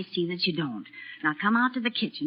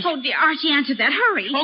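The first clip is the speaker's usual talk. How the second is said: flustered urging; 5 semitones higher than usual. Acted. Phone rings, mother urges him.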